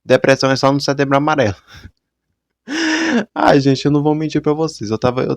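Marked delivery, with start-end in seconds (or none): 0.0-1.6 dismissive retort. Retold or imitated. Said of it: "lá vem ela falar". 2.7-3.3 high burst of laughter. Real, not acted. Laughs after own punchline.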